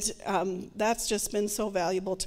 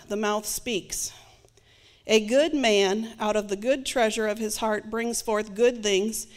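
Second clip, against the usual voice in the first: scripture reading. Acted. Reads scripture aloud.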